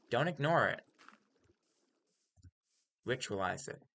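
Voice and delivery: a mild cult leader sermon, half-serious. Acted. Streamer to viewers, light mock cult leader sermon. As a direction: lightly preach the joy of fun like a guru. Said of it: "I really do sound like a cult leader".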